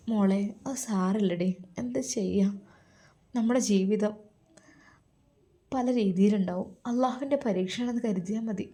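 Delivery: soft, mildly sorrowful motherly comfort; gentle consoling. Acted. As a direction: console your daughter quietly, with pauses. Mother consoles her hurt daughter. (മകളെ പതുക്കെ ആശ്വസിപ്പിക്കുന്ന ഉമ്മ)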